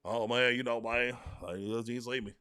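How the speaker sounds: hint of a mumbling shy receiver; mock timid mumble. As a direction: play a meek guy who won't speak up. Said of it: "be quiet and be like".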